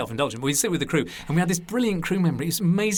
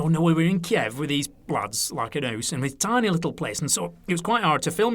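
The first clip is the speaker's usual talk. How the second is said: broad Lancashire storytelling voice; chatty Lancashire impression; Lancashire accent. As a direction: put on an older Lancashire man. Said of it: "So it's my Lancashire accent there".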